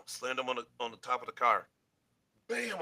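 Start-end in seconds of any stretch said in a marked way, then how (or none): 2.5-2.8 high-pitched "bam" for an impact; storyteller's high impact word; imitated slam.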